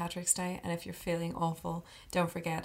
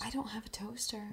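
whisper; 4 semitones higher, 6 dB quieter than usual. Acted. Whispered joke about toast.

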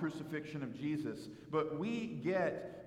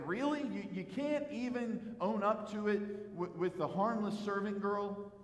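higher-pitched, incredulous challenge; mock disbelief; 4 semitones higher than usual. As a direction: question it in mild disbelief. Voices listener's disbelief at Peter.

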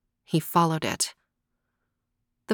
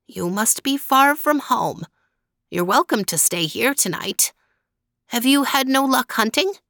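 put-on old woman voice; 5 semitones higher than usual. Old woman welcomes hunter.

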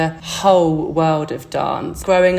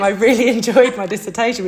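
laughing through the words; 5 semitones higher, 4 dB louder than usual. Real, not acted. Dancer laughing about enjoying her dissertation. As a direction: giggle while admitting it.

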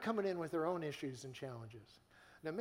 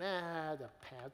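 mock dismissive. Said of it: "some of you are going".

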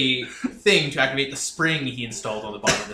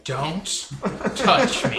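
high, loud finish through laughter; jokey rebuff with a laugh; laughing mock protest; 4 semitones higher, 6 dB louder, much slower than usual. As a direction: recoil in jest, breaking into laughter. Player's laughing retort to Jar Jar.

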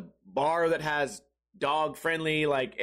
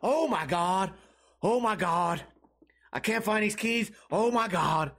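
imitating a panicked guy with a whimper in the voice; mock panic. Stranger panicking over lost keys, mock whimpering panic. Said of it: "the guy kept freaking out".

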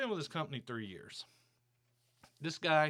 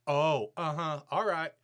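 louder, mocking uh-huh brush-off; dismissive boss; 5 dB louder than usual. Retelling how the boss waved off his complaint, louder mock brush-off. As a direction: imitate the boss waving it off. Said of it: "he pulled this".

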